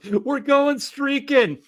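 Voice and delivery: put-on loud, high drunken rallying holler; Will Ferrell. Retelling a movie streaking call to his co-hosts, high rowdy holler. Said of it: "where Will Ferrell goes, he just goes".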